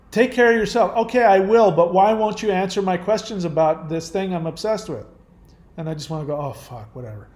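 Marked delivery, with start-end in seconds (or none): 0.1-5.1 loud, higher-pitched imitation of pestering; mock complaining. Host imitating followers who ignore his advice, mock complaining. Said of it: "whine and complain and not take any direction". 6.3-7.3 low, soft, dropping away; resigned dismissal. Retold or imitated. Host fed up with repeated questions, resigned. Voices wish to give up.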